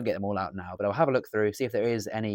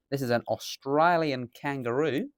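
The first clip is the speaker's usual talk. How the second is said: poor Australian accent; 4 semitones higher than usual. Shown as a demonstration. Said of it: "a bit of a poor accent there".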